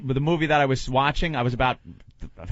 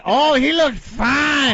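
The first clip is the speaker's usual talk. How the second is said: scared moviegoer; 11 semitones higher, 3 dB louder, much slower than usual. Retold or imitated. Imitating scared white moviegoers.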